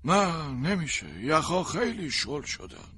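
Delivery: slow, level warning; a hint of a wary stranger; lightly voiced stranger. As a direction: speak like a calm outdoorsman. Stranger answers calmly.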